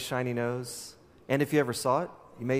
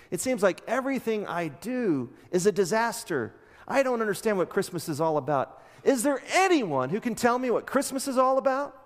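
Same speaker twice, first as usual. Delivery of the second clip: higher, a pleading cry, lightly acted; mock despairing; 4 semitones higher than usual. Charlie Brown begging Linus to explain Christmas, mildly despairing. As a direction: plead for an answer, half-hammed despair. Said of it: "Depressed, Charlie Brown says".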